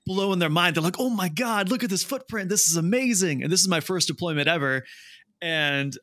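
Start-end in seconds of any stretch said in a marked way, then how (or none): 1.0-3.4 high, thrilled gushing; excited. Retold or imitated. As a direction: gush over the footprint. Friends excited over rhino footprint.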